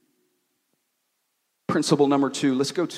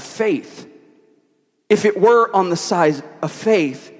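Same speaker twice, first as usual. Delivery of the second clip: firm, projected sermon voice; preaching; 4 semitones higher, 7 dB louder than usual. Real, not acted. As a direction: press the point on the congregation. Preaches a point.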